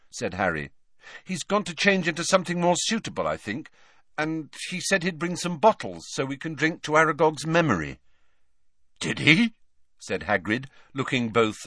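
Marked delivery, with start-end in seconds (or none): 1.2-8.0 lightly voiced boy, higher; Harry reassuring. Harry reassures Hagrid about Slughorn, lightly voiced. 9.0-9.5 Hagrid, taken aback, higher; a touched little surprise; surprised Hagrid. Acted. Hagrid hears Slughorn is coming, surprised.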